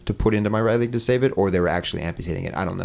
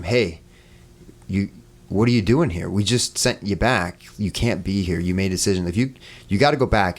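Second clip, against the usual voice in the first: mildly stern retold telling-off; firm, deliberate words, imitating a scolding; more stern. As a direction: send them away with a touch of sternness. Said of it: "more stern this time".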